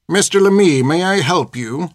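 a headmistress-nun stepping in coolly; stern nun. A narrator's reading. Sister Hilda stops Peter at the gate, prim and cool. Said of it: "Sister Hilda said".

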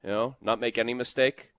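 Boston coach, defensive and weary; Sullivan Boston accent. Retold or imitated. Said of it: "I could imagine Sullivan in that Boston accent saying".

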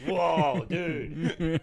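high, loud amazed whoa with a laugh. Retold or imitated. Gym guy hears the podcast and is amazed, a laughing whoa. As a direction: gasp in wonder like hearing something amazing.

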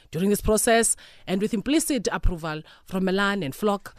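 formal politician reading the news. Pretend. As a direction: read it like a stiff politician. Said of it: "which voice you're going with".

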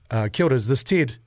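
lightly played low-pitched caller; a hint of corporate phone voice; job interviewer calling back. Host pretending to call Ted after an interview, low professional voice. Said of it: "Now they're calling you back".

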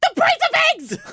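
high, loud exaggerated yell of outrage; hammed-up outraged cry about eggs; mock shriek. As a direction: shriek it like she's fed up. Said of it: "And she's like".

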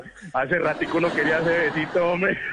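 laughing through the words. Retold or imitated. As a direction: crack up while teasing her. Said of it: "solté la carcajada". (riéndose a carcajadas)

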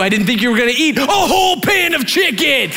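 mock-outraged, rising high voice; high, incredulous reproach; outraged wife. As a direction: imitate an upset wife, building to a wail. Acted wife in a quarrel.

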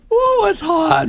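high, hoarse, burning-throat voice. Real, not acted. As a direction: gasp it out through the heat. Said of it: "It's not helped my voice at all".

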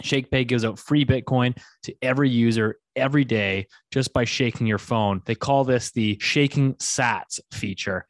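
upbeat sponsor read. Acted. Host pitching the sponsor to listeners, upbeat ad read. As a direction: sell it like a podcast ad.

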